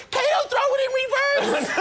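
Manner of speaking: high, frantic yelled order; retold shout. A famous singer ordering his driver to chase, shouting in a retelling. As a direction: holler an urgent command to the driver.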